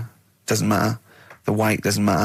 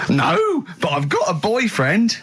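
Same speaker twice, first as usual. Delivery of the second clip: very high "No", then raised; higher camp punchline; camp sketch voice; 8 semitones higher, slower than usual. Acted. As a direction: deliver the punchline camply. Comic sketch dialogue.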